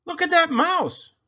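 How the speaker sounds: a monkey chattering at the bold mouse. A narrator's reading. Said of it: "chattered a monkey".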